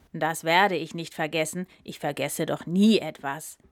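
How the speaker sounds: low, proud brush-off; a lightly voiced proud elephant; haughty. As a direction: talk down from your own pride. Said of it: "sagte der Elefant hochmütig".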